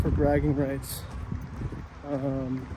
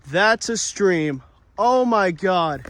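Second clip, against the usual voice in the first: amazed; 3 semitones higher, 5 dB louder, much slower than usual. Real, not acted. Amazed at the stream.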